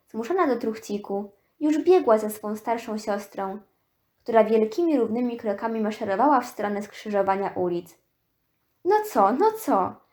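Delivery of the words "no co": squeaky, shrill, peeved, irritated outburst. A girl shouts at her older sister marching ahead, shrill irritated shout. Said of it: "Krzyknęła Ida z piskliwą irytacją".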